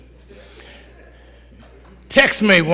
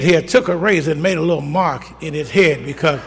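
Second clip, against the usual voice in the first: ordinary delivery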